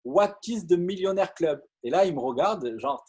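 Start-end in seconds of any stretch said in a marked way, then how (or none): 0.0-1.6 put-on higher-pitched English in his best accent; French speaker's proud attempt at English. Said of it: "avec mon meilleur accent".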